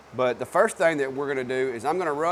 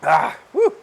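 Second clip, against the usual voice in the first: clearing throat; 2 semitones higher, 7 dB louder than usual. Real, not acted. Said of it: "dust is getting me".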